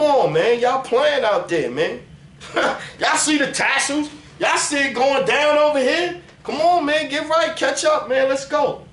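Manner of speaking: hyped up. Real, not acted. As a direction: fire up the crowd. Hyping up his community.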